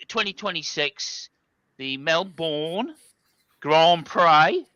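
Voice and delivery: mock Australian accent, slow on "Melbourne"; a jokey attempt at an Australian accent; host announces the race in a half-hearted Australian accent. Shown as a demonstration. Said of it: "Perfect Australian accent".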